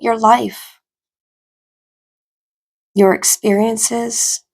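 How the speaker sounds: calm, even meditation voice with long pauses; guided meditation. Acted. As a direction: ease them into stillness, phrase by phrase.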